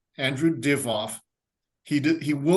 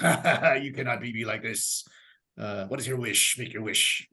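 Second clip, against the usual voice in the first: genie; 2 semitones lower than usual. Retold or imitated. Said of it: "the genie goes".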